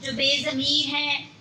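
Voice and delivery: measured Urdu mushaira recital; poetry recitation. Acted. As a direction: recite verse in long, even phrases.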